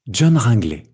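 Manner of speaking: "John Ringley" as one unbroken group; one rhythmic block. Shown as a demonstration. Teacher demonstrating group two, said as one block. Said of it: "Bloc deux".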